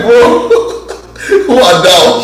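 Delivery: chuckling bro who are thou; laughing mockery. Real, not acted. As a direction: tease the archaic wording. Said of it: "Like, like".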